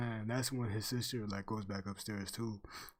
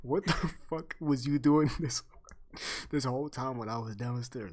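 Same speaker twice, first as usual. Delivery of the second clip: retold exasperated yell; 7 dB louder than usual. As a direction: replay your disbelief at your friend, dragging it out. Retold confronting friend upstairs.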